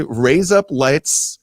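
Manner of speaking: "Raise up lights" said slowly as three words; slow separate words. Shown as a demonstration. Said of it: "for an Australian version of razor blades".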